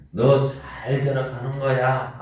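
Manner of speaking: lightly voiced scolding mother; mother's scolding line. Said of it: "하고 우리 어머니들이 그러셨잖아요". (혼낸 뒤 자식에게 말하는 어머니, 약하게 흉내)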